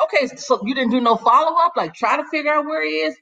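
can you believe they didn't follow up; incredulous indignation. Real, not acted. Speaker's indignant reaction.

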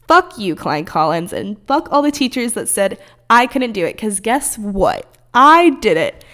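real triumphant defiance, ending in a loud burst; defiant outburst. Real, not acted. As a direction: spit it at the school that doubted you. Cursing out old school triumphantly.

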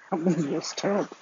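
quick words through a laugh. Real, not acted. Laughing while judging the movie.

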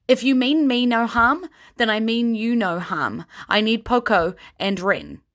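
lightly voiced heroine, urgent; Kyra pleading. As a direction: urge the frightened crowd. Kyra addresses the crowd.

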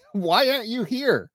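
mocking text voice. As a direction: read the text back in a mocking voice. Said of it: "these are actual texts".

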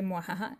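low, soft mock evil laugh; a quick hammy villain cackle under the breath; mustache twirling villain. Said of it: "típico libro de ventas malvado". (risa malvada de villano de bigote)

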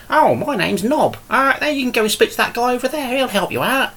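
high-pitched, endearing little goblin voice; cute, endearing goblin. Acted. Goblin answering players who ask his name, cute high voice. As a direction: play a helpful little goblin, pitched right up. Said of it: "a cute, endearing character".

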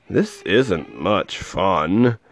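mope it out slowly; grumbling. Acted. Elephant grumbling alone on the egg in the storm, slow. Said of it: "the poor elephant grumbled".

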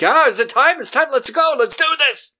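very high, loud eager calls; hyped-up, bring it on; eager condemned man. Retold or imitated. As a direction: pump yourself up to go. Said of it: "he's like".

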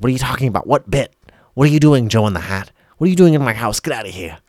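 high, loud outraged yelling; angry shout. Acted. Boy shouting at Joe to get out, furious. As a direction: yell at the stranger in your house.

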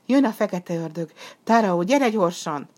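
pressing cry of danger; urgent warning. Acted. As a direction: warn him to hide at once. Girl warns of the coming demon.

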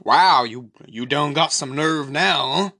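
lightly acted taunting villain, loud opening; mock-impressed taunt, hitting the first word hard; Krug. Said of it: "Krug's like".

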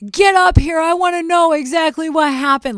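loud, high-pitched demanding mother; insistent mom. Retold or imitated. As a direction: imitate a mom urgently summoning you for the details. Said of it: "my mom was like".

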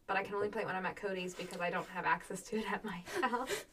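quick hushed aside; whisper. Real, not acted. Unvoiced fast aside.

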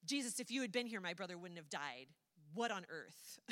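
mock a fed-up sister confronting him; angry Martha. Martha confronts Jesus over her brother's death, acted anger. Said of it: "it seems pretty clear from the context that she is so angry".

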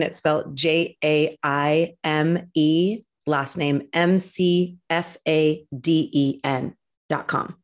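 slow letter by letter spelling. Shown as a demonstration. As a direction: spell each letter out slowly. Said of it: "spell it out for me".

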